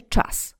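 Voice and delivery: „czas” z twardym cz, zęby zwarte; twarde cz. Shown as a demonstration. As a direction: say "czas" with a hard cz through nearly closed teeth. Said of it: "zęby będą zwarte". („czas” twardo, przez szczelinę między zębami)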